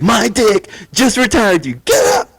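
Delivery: slow, high, loud proclamation again; triumphant shout. Retold or imitated. Podcaster repeating the son's line, triumphant shout. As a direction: announce it like a victory.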